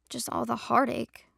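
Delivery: slow, sighing regret; sighed. Acted. Juniper sighs sadly to Trinity. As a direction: let it out on a tired breath. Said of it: "Juniper sighed".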